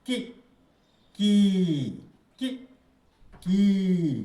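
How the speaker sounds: की held long, stretched vowel; drawn-out vowel. Shown as a demonstration. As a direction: stretch की out like a teacher showing length. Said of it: "बच्चों को सिखाना चाहिए".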